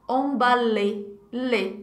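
"Emballer" said slowly, the final "le" ending in a smile with no R. Shown as a demonstration. Teacher drills the smiling ending of "Emballer". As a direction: spread the lips into a smile on "le". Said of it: "Termina com um sorrisinho".

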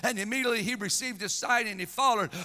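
energetic, emphatic sermon cadence; impassioned preaching. Real, not acted. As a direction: drive the Bible story home from the pulpit. Preaches with force.

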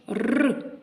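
р said alone, rolled and held; teacher sounding out the letter for children; isolated sound. Shown as a demonstration. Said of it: "Другий звук ми чуємо".

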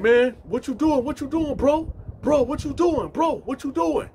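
very high-pitched acted objection; retold panicked challenge to someone snooping; alarmed protest. Inmate protests bag search.

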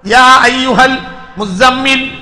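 measured, slow tajwid-style recitation; slow devotional recitation; Quran recitation. Acted. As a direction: recite the verses with reverent pauses.

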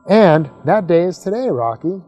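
spring the surprise with a grin. Acted. Grandma tells Rocky about the space trip, grinning. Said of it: "Grandma said with a grin".

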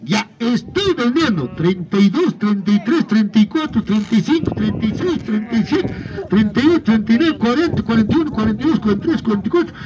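rhythmic auction chant calling bids; spanish auctioneer. Acted. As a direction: call out each rising bid in turn. Counting up bids live.

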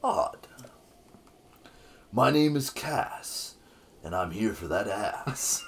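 smooth flirty bard voice; lightly voiced seductive bard; Cass sexy bard voice. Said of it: "can you give him a sexy bard voice?".

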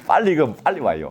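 quick, laughing aside; amused, hurried warning. Real, not acted. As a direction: say it fast with a laugh. Joking contrast with slow reading.

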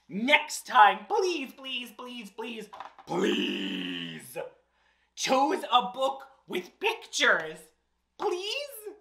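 dramatic whiny begging; mock begging. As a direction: beg over and over.

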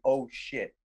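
softly re-enacted realization; hushed film line. Retells his hushed film line.

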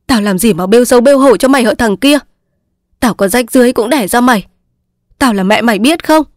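put-on stung old mother scolding hard; angry mother scolding. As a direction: lash out at the son who shames her. Mother scolds ungrateful son.

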